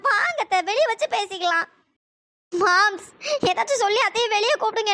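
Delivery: put-on a frightened young woman begging her aunt; scared young woman. Preethi begs her aunt to come out, frightened and pleading.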